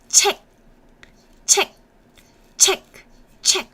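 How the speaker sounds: "check" said as the Korean 책 with a stopped ending; Korean syllable 책. Shown as a demonstration. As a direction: clip "Check, check" short, close the throat on the final k. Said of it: "it makes a sound".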